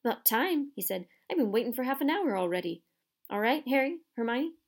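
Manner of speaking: gruff friendly giant. Acted. Hagrid voiced in story.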